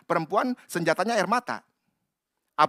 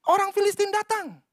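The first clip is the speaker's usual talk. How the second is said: mock alarm call; 13 semitones higher than usual. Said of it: "dia teriak".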